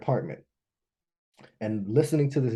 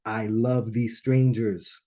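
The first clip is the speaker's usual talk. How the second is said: loving awe; 3 dB louder, slower than usual. Retold or imitated. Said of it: "powerful experience of like".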